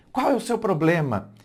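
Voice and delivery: mildly pointed ask; a touch of confrontation; wrong way to open a talk, mildly accusing; accusing question. Shown as a demonstration. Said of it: "ao invés de você dizer".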